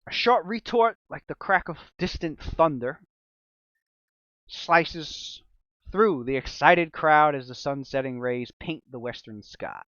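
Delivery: slow, ominous storytelling voice; dramatic narration. Acted. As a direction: paint the scene with suspense.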